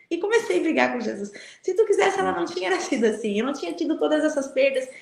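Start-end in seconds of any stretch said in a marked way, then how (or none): 1.6-4.9 retold angry quarrel. Woman retelling how she argued with Jesus, indignant. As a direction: throw the accusation back at him, indignant.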